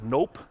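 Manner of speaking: buzzer nope. Retold or imitated. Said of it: "this was like".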